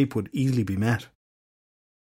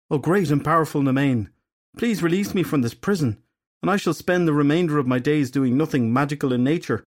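higher, begging and grovelling; pleading dark magician; 4 semitones higher than usual. Acted. Edgar begging the goddess Nemain for release, grovelling. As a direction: plead as if flattened in the dirt.

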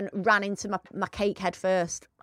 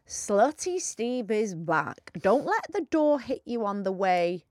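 matey bloke; much slower than usual. Acted. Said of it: "read this in your blokey voice".

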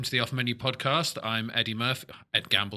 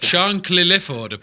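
drawn-out announcement; 7 semitones higher, 8 dB louder, much slower than usual. Pretend. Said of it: "echoing James's reveal".

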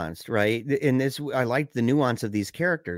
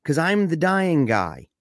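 slow, higher, deliberate mock insistence; retold insistent retort; 5 semitones higher, 3 dB louder, slower than usual. Michael repeating his trump card to Andy, slow mock insistence. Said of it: "he keeps repeating it over and over".

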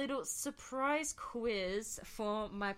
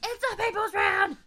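high, loud echoing holler; show catchphrase; 10 semitones higher, 11 dB louder than usual. Retold or imitated. Host echoes the quiz show with partner, loud high holler. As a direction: holler it like a studio crowd.

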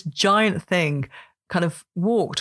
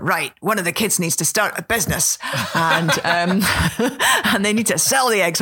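quoting husband's business plan while laughing; laughing through a quote. Retold or imitated. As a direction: giggle your way through his idea. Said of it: "was like".

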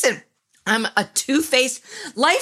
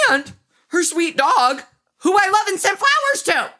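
housewife denial; 2 semitones higher than usual. Retold or imitated. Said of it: "felt like a housewife in that moment".

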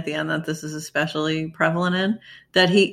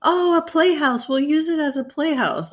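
put-on childish voice; 8 semitones higher than usual. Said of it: "Laura's like".

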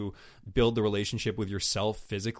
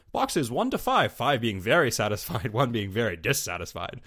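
robotic survey-taker; 5 dB louder than usual. Acted. Podcaster mocking a survey halfway through sex, robotic delivery. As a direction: read out the rating scale like a robot. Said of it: "using that same kind of robot".

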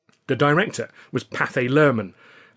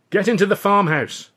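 high, loud warning; urgent shout; 9 semitones higher, 7 dB louder than usual. A narrator's reading. Narrator warning Billy, urgent shout. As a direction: get him to safety.

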